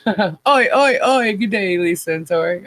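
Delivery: put-on playful, light Aussie accent; hint of Australian accent. Streamer greeting Lisa and Tori, light Australian accent. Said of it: "I can almost hear the accent".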